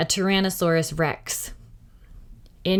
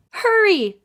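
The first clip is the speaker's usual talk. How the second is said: put-on much higher, louder little-girl call; Annie shouting; 12 semitones higher, 5 dB louder than usual. A narrator's reading. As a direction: call down high from the treehouse. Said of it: "shouted Annie".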